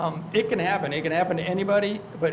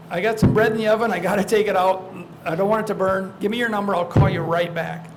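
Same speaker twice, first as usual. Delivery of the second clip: mock excuse; 4 dB louder than usual. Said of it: "I think it was Dave said".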